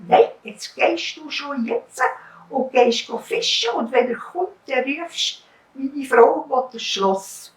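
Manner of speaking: insist, pushing him out; wife ordering husband to the fish; bossy wife. Acted.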